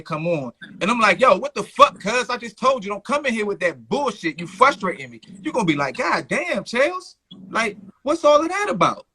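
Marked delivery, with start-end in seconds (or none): 1.2-5.2 stern rebuke. Acted. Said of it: "I could be more stern about it". 6.0-9.1 high-pitched, put-out mock reaction; taken-aback protest. Host voices the scolded guest's reaction.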